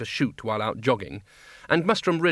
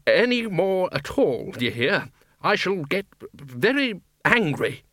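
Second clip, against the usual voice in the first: growled threat; 6 semitones higher, slower than usual. Acted. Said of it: "growled Ridcully".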